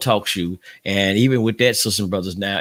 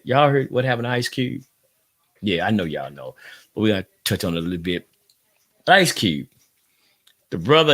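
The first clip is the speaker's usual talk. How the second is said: ordinary delivery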